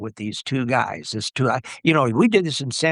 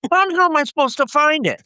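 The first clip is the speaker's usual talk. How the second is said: baffled question; 13 semitones higher than usual. Retold or imitated. Retold baffled question on set.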